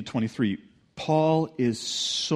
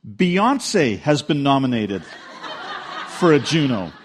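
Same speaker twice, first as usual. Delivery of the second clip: laughing retelling; 4 dB louder than usual. Retold or imitated. Pastor retelling the misheard news, laughing. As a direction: laugh while quoting the mishearing. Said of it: "what he heard was".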